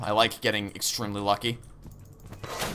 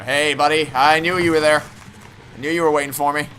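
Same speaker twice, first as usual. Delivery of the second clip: mock-friendly taunt; 3 semitones higher, 6 dB louder than usual. Real, not acted. Mock-friendly greeting to monster.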